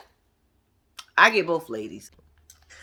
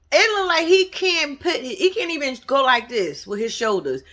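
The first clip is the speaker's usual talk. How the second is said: higher, laughing through the words; laughing while talking; 6 semitones higher than usual. Real, not acted. Laughing about Martell's tight jacket, higher. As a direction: crack up mid-sentence. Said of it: "laughing over the tight jacket".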